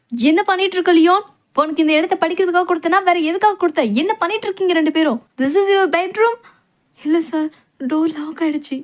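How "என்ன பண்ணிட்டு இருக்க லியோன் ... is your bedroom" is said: raised, higher-pitched scolding voice; scolding professor. Acted. Professor scolds students found in the study room. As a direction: scold them like a strict professor.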